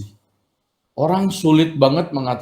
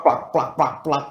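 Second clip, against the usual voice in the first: imitated smacking; 4 dB quieter than usual. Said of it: "apalagi nyeplak".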